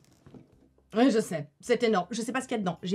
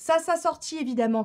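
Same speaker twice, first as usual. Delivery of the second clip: ordinary talk, nothing marked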